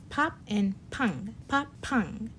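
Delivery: 팡 said with a strong aspirated P; 팡 punched with extra air; bab versus ppang contrast. Shown as a demonstration. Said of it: "Notice the difference in the pronunciation".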